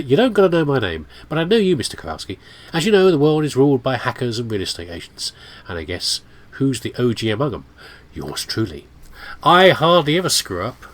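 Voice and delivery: lightly hammed-up Italian accent; badly faked Italian accent, punchy openings; terrible Italian accent. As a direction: attempt a bad Italian-type accent. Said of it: "A terrible Italian type accent".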